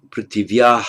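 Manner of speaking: "Prithivya" ending in aah, with an audible h; "Prithivya" closed with a breathy h; with visarga. Shown as a demonstration. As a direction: let a puff of breath follow the long a of "Prithivya". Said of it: "long A with Visarga".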